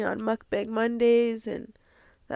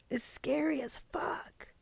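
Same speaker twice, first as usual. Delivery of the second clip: slow whisper, much softer; hushed confession; 5 semitones higher, 9 dB quieter, slower than usual. Real, not acted. Admitting to listeners that love scares her, whispered. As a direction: breathe it out like a secret.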